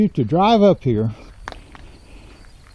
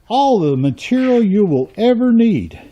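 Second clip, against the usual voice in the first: mock sales pitch; 6 semitones higher than usual.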